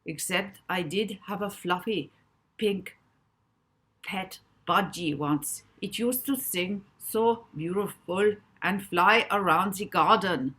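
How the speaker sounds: put-on wistful German accent. A narrator's reading. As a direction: remember fondly, German accent. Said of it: "his adopted German accent".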